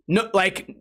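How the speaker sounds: ordinary talk, nothing marked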